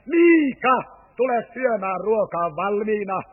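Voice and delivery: loud call on the name, easing off after; calling out again. Retold or imitated. Grandma calls the boy a second time, loud call. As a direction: call him in a second time, a bit tired of it. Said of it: "Mummo huutaa hetken päästä toisen kerran".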